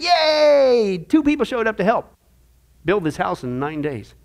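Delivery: hammed-up excitement; mock cheer. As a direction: fake delight at a tiny turnout. Mock cheer at two helpers.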